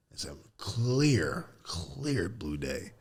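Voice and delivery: slow, whispered wonder; hushed awe. Real, not acted. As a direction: breathe it out slowly, almost a whisper. Remembering the sky.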